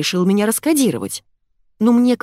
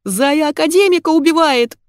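much higher, louder alarm; yelled; 10 semitones higher, 5 dB louder than usual. A narrator's reading. Heroine yells to the household about the fight. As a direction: bellow the news. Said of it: "заорала я".

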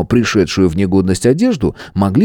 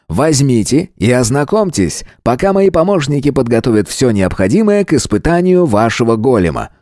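higher showman announcer voice; ringmaster; 5 semitones higher than usual. Acted. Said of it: "конферансье".

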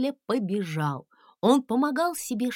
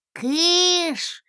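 high, loud shooing cry; exclaiming; 8 semitones higher, 5 dB louder than usual. A narrator's reading. Little dragon shooing the crowd away, high and loud. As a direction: shoo them off with a yelp. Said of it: "воскликнул гусли".

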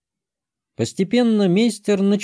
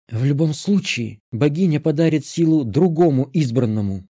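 pompous; 3 semitones higher than usual. Acted. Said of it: "с пафосом в голосе".

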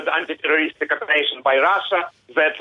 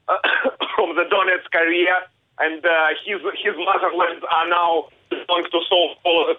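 raised, insistent correction; passionate; 3 semitones higher than usual. Real, not acted. Kharkiv man correcting the interviewer, passionately insistent. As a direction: set the record straight, heated but controlled. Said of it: "I can hear the passion in your voice".

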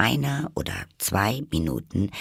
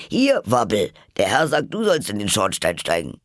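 befehlender Ruf; 4 dB louder than usual. Acted. Kaninchen befiehlt Wabbel.

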